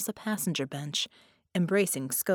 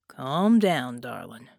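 meditative; 5 semitones lower, 5 dB louder, slower than usual. A narrator's reading. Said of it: "Jack said meditatively".

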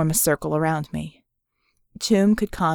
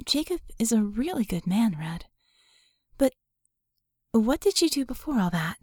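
softened; 5 semitones higher than usual. Acted. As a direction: ease off, tender for a moment. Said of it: "Her voice softened a little".

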